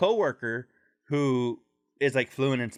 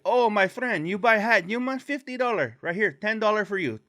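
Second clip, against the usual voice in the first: hat seller; 8 semitones higher than usual. Retold or imitated. Hustler pushing a hat on the snowbird, high haggle. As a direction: haggle hard like a street hustler. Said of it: "how the guy sounded".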